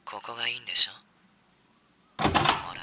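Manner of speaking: a hint of seductive teasing. Shown as a demonstration. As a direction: tease like a seducer. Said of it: "次、お前のな。".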